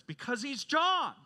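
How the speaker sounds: acting out a student who finally blurts it out; frustrated outburst. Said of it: "out of frustration".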